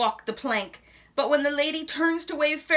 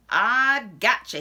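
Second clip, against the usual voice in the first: slow, louder outlaw drawl; 6 dB louder, slower than usual. Acted. Bad Nose Bill grabbing the reader, slow and louder. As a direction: growl it like a cowboy villain.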